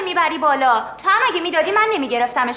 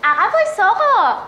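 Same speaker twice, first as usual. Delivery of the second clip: raised, higher warning to back off; angry warning; 6 semitones higher, 3 dB louder than usual. Acted. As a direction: push the stranger back with your voice. Boyfriend confronting stranger.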